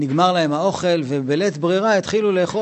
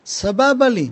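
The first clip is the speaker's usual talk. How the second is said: mock complacent; 6 semitones higher, slower than usual. Mocking complacent person.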